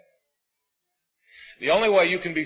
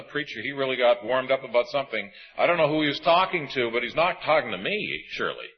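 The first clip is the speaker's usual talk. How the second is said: mock dismissive listener; faster than usual. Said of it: "prepared to leave this auditorium today and say".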